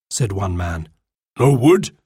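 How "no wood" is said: mildly taken-aback question; incredulous. A narrator's reading. Golden Eagle hears his men found none, incredulous. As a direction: query it in disbelief. Chief's first reaction to news.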